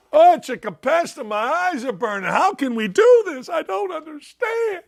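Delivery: high, shouty complaining parody; mock whiny liberal. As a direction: whine like a dismayed city official. Mocking New Yorkers complaining about migrants.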